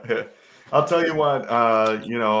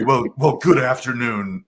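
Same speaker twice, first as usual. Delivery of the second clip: mock insult; 5 dB louder than usual. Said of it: "the worst insult that you could".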